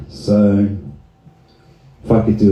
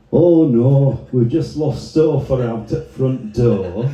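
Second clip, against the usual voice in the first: mock Sheffield local in mild dismay; broad Sheffield voice for a comic lament; Sheffield accent; 3 semitones higher, slower than usual. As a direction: play a put-out Sheffield resident. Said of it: "some poor sod in Sheffield going".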